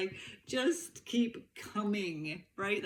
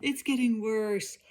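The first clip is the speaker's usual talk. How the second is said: high, laughing mock panic; half-laughing alarm at the husband; retold panic through laughter; 7 semitones higher than usual. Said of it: "I was like".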